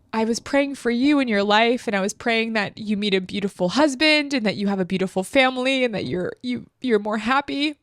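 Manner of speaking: real tears creeping into the retelling; tender, choked-up retelling of a blessing; tearful. Real, not acted. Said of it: "Why do I always cry".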